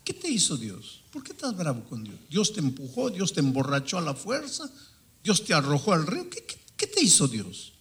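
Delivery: retold indignant questioning, mildly heated; stern confrontation. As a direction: press him with mounting rhetorical questions. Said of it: "ahí estaba hablando de esa manera". (interrogatorio indignado que va subiendo)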